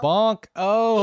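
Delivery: "Bonk" popped out high and loud; delighted "Bonk". Real, not acted. Streamer reacting to the boy's threat, high excited yelp. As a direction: yelp the word "Bonk" with glee. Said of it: "bonk you myself".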